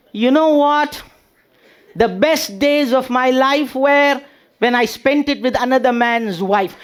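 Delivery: a lightly hammed orator line; imitating a speaker. Husband to wife at the sink, grand orator voice. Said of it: "So I told her".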